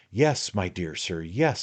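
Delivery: a hint of a knowing little lawyer; sly attorney, coaxing. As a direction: draw him in like a confidant. The attorney talks in the story.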